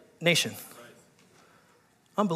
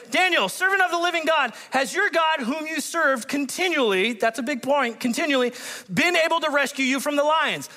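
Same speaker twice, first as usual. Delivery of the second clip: a touch of anguish, raised; anguished cry; 7 semitones higher than usual. Acted. King calls anxiously to Daniel in the den, mildly anguished. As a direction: call out with mild anguish. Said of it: "okay, anguished voice".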